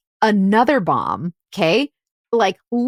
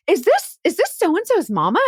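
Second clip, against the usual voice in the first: put-on Southern accent; 8 semitones higher than usual. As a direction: ask it in your best mock Southern accent. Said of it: "my best Southern accent".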